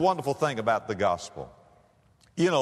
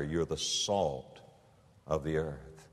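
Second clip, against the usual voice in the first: softer, slow and drawn out; hushed emphasis; 8 semitones lower, 8 dB quieter, slower than usual. Real, not acted. Preacher hushing the congregation on a key line, quiet and slow. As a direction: let it sink in, almost under the breath.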